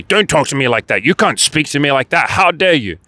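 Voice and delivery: mock-indignant protest, pitch swooping high; climbing to a high, affronted finish; defensive retort. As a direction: act out offended outrage without really shouting. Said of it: "if you instead defend yourself and say".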